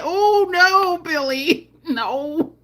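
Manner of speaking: half-laughing protest; mock dismay. Pleading with Billy Porter in a mock-dismayed voice. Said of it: "I was like".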